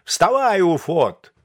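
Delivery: loud, high rousing yell; shouting a sleeper awake, high and hard. A narrator's reading. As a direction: bellow to wake the sleeping poet. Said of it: "крикнул".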